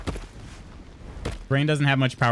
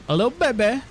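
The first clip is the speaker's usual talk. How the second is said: put-on much higher, cooing baby voice; baby talk coo; 11 semitones higher than usual. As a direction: coo it like talking to an infant. Cooing over baby figurines.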